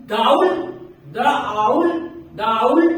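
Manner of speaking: "दाउल" and "द आउल" slurred as one word; wrong merged form. Shown as a demonstration. Teacher showing the unclear merged "दाउल". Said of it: "तो वो सही नहीं".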